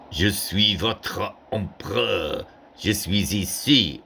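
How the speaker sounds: slow, grand imperial French; lightly voiced emperor addressing troops; Napoleon in French. Shown as a demonstration. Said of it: "instead of saying".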